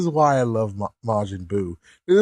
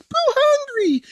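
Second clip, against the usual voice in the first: very high, slow whiny announcement; childlike Buu. Retold or imitated. Buu announcing his hunger, very high and slow. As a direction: say it like a big hungry baby. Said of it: "and he's like".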